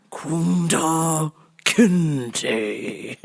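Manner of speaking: slow, drawn-out name through a laugh; laughing Kunta Kinte. Retold or imitated. Answering the mock master, slow and laughing. Acting out Roots scene.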